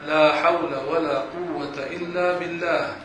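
slow, each word of لا حول ولا قوة إلا بالله given its full sounds; measured dhikr; careful correct recitation. Shown as a demonstration. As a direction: recite it slowly and fully. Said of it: "كيف بده يقول الواحد".

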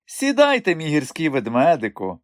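high, coaxing and affectionate; tender invitation. Acted. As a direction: purr him onto the sofa beside her. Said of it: "ласкаво запросила вона".

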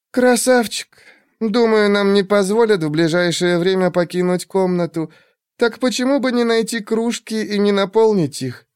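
high, teasing woman's voice; sultry woman voice. Acted. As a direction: coax them, lazy and teasing. Shurk Elalle voiced.

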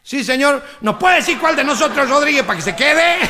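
put-on politely slurring drunk at the door. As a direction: drunk asking the lady at the door. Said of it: "dice el borracho".

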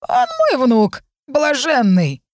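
put-on high, slow, creaky old crone; creaky old woman voice. A narrator's reading. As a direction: quaver it out like a blind old nanny. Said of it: "скрипучий старческий голос".

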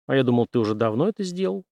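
quick, lightly surprised remark; a hint of surprise, said fast. The general is mildly surprised at Henry, quickly. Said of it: "удивился генерал".

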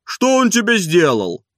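high, loud, slow placating; placating yardman. A narrator's reading. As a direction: ask it slowly to calm him. Yardman calming Zakhar.

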